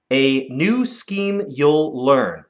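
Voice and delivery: slow, measured line; slow recital. Shown as a demonstration. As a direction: read it slowly for counting. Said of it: "One, two".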